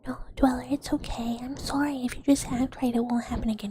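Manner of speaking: coaxing whisper with a playful threat underneath; mock soothing. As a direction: pretend apologetic whisper. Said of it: "you just do the back and forth".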